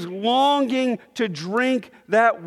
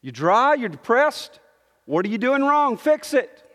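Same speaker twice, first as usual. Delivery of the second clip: mock scolding; 3 semitones higher than usual. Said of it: "It's not the way we think".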